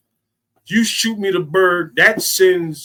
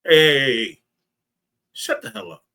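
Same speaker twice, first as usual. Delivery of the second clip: rude hush. Shown as a demonstration. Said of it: "You can say".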